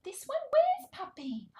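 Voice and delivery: high, slow, loud excitement; playful searching. Pretend. Reader seeking puppy with toddler, high excited wondering. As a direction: call out the hunt for puppy.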